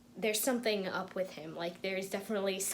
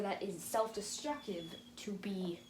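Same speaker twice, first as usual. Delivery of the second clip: whisper; 6 dB quieter than usual. Real, not acted. Hushed aside about self-destruction.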